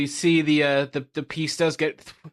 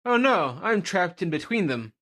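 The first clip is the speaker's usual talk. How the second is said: higher acted "oh no"; mock alarm; 4 semitones higher, slower than usual. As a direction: voice a trapped character's mild panic. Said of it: "and he's like".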